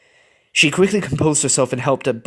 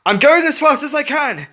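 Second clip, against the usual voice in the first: irritable; 4 dB louder than usual. A narrator's reading. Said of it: "Plucky shouted irritably".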